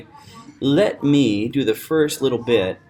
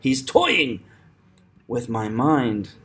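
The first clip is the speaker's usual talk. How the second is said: "toying" punched, then slower "with my mind"; measured line leaning on "toying"; stress on TOY; slower than usual. Shown as a demonstration. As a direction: hit "toying", pause, then ease off. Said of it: "'cause that's stress".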